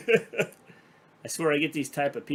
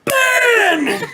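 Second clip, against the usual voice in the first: shouting a name; 12 dB louder than usual. Real, not acted. Calling out to someone.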